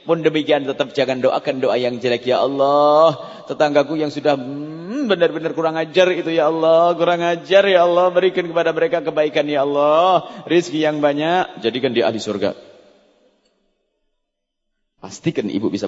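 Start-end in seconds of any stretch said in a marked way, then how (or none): 2.2-12.6 prayer. Shown as a demonstration. Model prayer for enemy.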